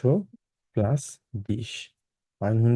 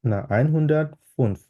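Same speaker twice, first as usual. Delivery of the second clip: slow correction; 3 semitones higher, much slower than usual. Shown as a demonstration. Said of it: "এটা যেহেতু একশো পঞ্চান্ন".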